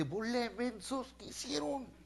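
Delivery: high, soft, tearful reproach; whimpering old father. Retold or imitated. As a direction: squeak it out like a weepy grieving dad. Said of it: "y Jacob llora".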